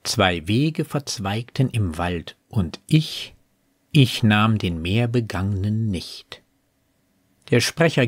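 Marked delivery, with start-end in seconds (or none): 0.0-6.4 measured verse with a pause before the final line; poem recitation. Acted. Reciting the poem's turning point, measured poetry reading. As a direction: recite deliberately, letting "und ich" hang. Quotes poem between commentary.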